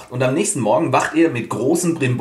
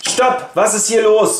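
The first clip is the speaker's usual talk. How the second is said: commanding stop; 9 semitones higher, slower than usual. Acted. King breaks up duel.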